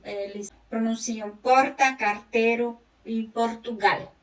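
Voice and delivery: "porta", "carteiro" and "Portugal" with a tapped R, slowly; tapped R in the Portuguese accent; Spanish-like R. Shown as a demonstration. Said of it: "o R também eles pronunciam como em espanhol".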